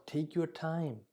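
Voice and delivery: slow and soft, no rush; gentle reassurance. Shown as a demonstration. Teacher modelling a calming line for a patient, slow and soft. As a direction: ease the patient's worry, slowly and softly. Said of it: "They, they look for certainty".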